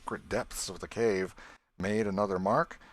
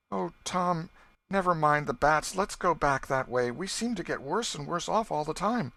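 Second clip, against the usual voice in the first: put-on higher and louder, tearful pleading girl; holding back tears; 8 semitones higher, 5 dB louder than usual. A narrator's reading. Becky begging Tom to go back past the bats, tearful. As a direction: beg him, close to crying. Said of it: "tried hard to keep back the tears".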